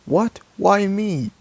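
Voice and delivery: high, whiny what, why me; indignant surprise. Acted. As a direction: protest being blamed. Child voicing Red Reptile.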